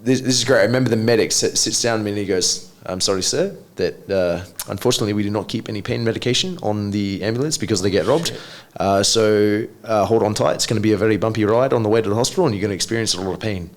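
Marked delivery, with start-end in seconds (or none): 2.9-13.7 put-on South African accent. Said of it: "That was my South African accent".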